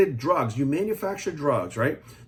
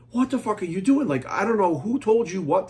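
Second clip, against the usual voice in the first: exasperated; 3 semitones higher than usual. Retold or imitated. Watching Richard's video, exasperated and disbelieving. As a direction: throw it at him in disbelief.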